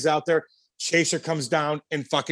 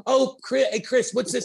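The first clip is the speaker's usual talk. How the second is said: high, whiny nagging voice; mock pestering; 8 semitones higher than usual. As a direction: pester the coach like a kid. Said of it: "you come over like".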